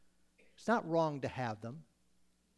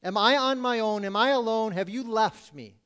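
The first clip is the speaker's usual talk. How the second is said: raised, urgent plea; pleading with God; 3 semitones higher, 6 dB louder than usual. Acted. Preacher voicing the psalmist to God, pleading. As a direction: cry out as if abandoned. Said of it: "voicing Asaph's despairing question".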